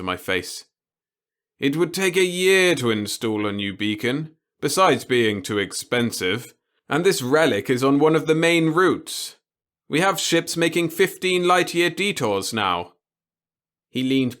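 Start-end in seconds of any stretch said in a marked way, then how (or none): 1.6-12.9 put-on gleeful old boss. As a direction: savour every word of it. The boss voiced in story.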